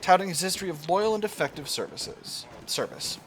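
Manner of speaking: animated storybook read-aloud; storyteller reading a game event; dramatic event narration. Acted. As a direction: narrate the general's tale with lift.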